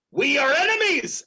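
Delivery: dramatic villain outburst; villain's declaration. Acted. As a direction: declare it hotly as the dark monk.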